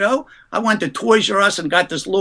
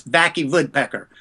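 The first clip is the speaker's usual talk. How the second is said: mock German accent, the W said as a V; Vacky Woodpecker with a V, hammed-up German accent; fake German accent. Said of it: "all I could say was".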